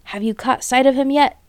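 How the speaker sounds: calling back. A narrator's reading. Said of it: "Bean called back".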